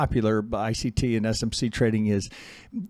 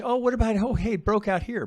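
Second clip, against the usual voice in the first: higher-pitched imitation of an excited trader; mock eager objection; 11 semitones higher, 4 dB louder than usual. Trader objects about a breakout, mock eager and high. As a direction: voice the breakout fan, pitched well up.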